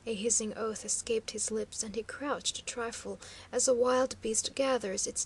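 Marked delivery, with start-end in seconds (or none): none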